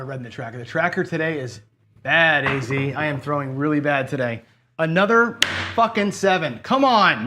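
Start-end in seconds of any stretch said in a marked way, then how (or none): 4.8-7.3 real frustrated outburst, higher and louder; getting mad. Real, not acted. Gambler cursing another losing roll, louder and higher. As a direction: snap at the dice in real anger. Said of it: "Now I'm getting mad".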